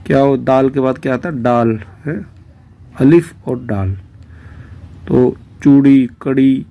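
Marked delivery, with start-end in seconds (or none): 5.1-6.1 चूड़ी said slowly with a clear flapped ड़; stressed example word. Shown as a demonstration. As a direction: land on the flap in चूड़ी. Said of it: "इसमें अड़े का इस्तेमाल होता है".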